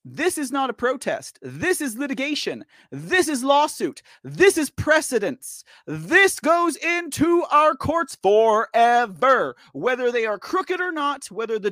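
forceful lecture, stretched out for emphasis; going hard. Real, not acted. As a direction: hammer each statement home deliberately. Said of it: "I'm kinda going hard right now".

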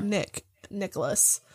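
soft calling voice; quiet call. Acted. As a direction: call his name softly. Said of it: "I'm like".

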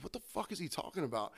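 the bartender mutters to himself, baffled, half under his breath. Retold or imitated. Bartender muttering to himself about the order, hushed. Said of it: "I was like".

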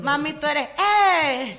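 playing the crowd cheering her on; imitated crowd cheer. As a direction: hype a friend up like a cheering gym crowd. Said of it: "la gente grita".

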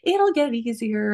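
a hint of the boyfriend placating; imitating boyfriend. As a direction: soothe her, half-mocking him. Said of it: "he was like".

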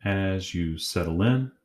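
calm, measured guided-meditation voice with long pauses; unhurried meditation leader, pausing between phrases. Acted. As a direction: guide them gently inward, leaving long silences.

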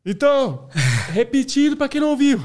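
imitated announcer raising his voice, high and loud; speaking up. Cinema employee repeats for those who didn't hear, loudly projected. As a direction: project it to the back of the room. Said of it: "fala mais alto".

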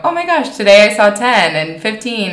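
high, excited gasp of counting; excited kids' exclamation. Retold or imitated. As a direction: blurt it out like a thrilled teen. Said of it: "be like".

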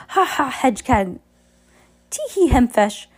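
high, loud hammed-up laugh; fake villain laughter. A narrator's reading. Olaf celebrating with new laughter, high hammed laugh. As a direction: ham up a silly villain laugh. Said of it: "Olaf cried".

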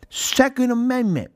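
high, squawky mock heckler; squawky yell. Woman in the balcony interrupts the show, imitated in a high squawky yell. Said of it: "we hear squawky fucking Susan in the balcony yell".

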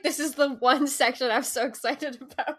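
imitating excitement. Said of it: "I was like".

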